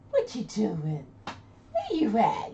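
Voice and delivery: calling the dog. Retold or imitated. Voicing herself calling her dog.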